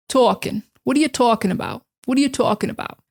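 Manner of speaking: "Talking" with a long open aw, New York accent. Shown as a demonstration. Teacher demoing a New York phrase. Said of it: "in New York, they're gonna say".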